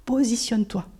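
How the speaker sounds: the Holy Spirit's dry whispered command; a curt whispered order from the Spirit. Retold or imitated. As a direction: whisper it short and firm. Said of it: "C'était un peu sec".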